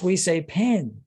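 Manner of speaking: "pain" drawn out with the n sounded; southern French pain. Retold or imitated. Southern Frenchman explaining local speech to a learner, "pain" with a voiced n. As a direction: slowly say "pain", pronouncing its final n. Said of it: "he actually says the N".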